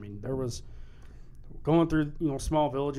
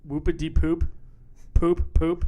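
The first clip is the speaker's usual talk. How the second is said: loud, incredulous quoting of the lyric; mock quote of a rapper; 4 semitones higher, 8 dB louder than usual. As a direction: echo the lyric in disbelief. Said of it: "Did he literally say".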